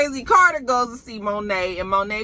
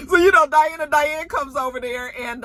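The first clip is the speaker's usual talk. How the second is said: laughing through words; 8 semitones higher, 4 dB louder than usual. Real, not acted. Still laughing while recapping.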